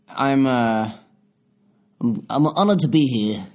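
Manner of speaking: a put-on Liverpool accent. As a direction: speak in a Scouse accent. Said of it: "What was that voice?".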